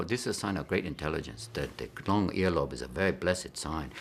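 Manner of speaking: mock Chinese accent, low and measured; imitated Chinese accent. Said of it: "the Chinese will go".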